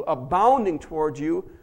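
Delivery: normal talking voice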